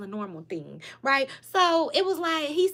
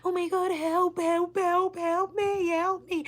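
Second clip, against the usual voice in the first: retold panicked screaming; 5 semitones higher, slower than usual. Friend on the tracks cries out to the creature, mock panicked. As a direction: imitate a terrified friend calling for help, lightly. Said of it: "the nigga that's behind him starts screaming".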